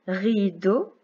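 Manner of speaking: "rideau" stretched into two syllables. Shown as a demonstration. Teacher reading exercise words to tick syllables, syllable by syllable. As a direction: hold "ri", then place "deau". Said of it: "on coche la syllabe".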